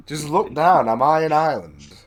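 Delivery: loud, high incredulous questioning; mock exasperation. Friend ridiculing Preston's uncertainty about being in Ireland, mock exasperated. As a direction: spell out the obvious, loud and exasperated.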